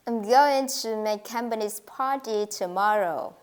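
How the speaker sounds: "going", "company's", "party", "tomorrow" gently stressed; stressed content words. Shown as a demonstration. Teacher leading students in repeating, stress on "going", "company's", "party", "tomorrow". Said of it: "Let's say the sentence with me".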